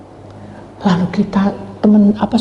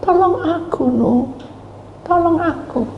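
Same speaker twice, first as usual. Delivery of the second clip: higher, desperate calling; mock cries for help; 10 semitones higher, 5 dB quieter, slower than usual. Drowning friends calling Noah for help, desperate. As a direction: plead to be saved. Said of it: "berteriak-teriak memanggil".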